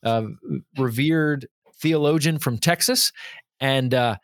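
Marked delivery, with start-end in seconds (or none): 0.0-3.1 put-on nasal Texas accent, nose pinched shut; slow Texas accent through a held nose; Stanley Hauerwas Texas accent. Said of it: "I was holding my nose then".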